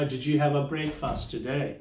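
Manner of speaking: each word said slowly and clearly; slow model question. Shown as a demonstration. Teacher asking students slowly, clear model question. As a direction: say it slowly, spelled out for learners. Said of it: "तो मैं आपसे पूछूंगा".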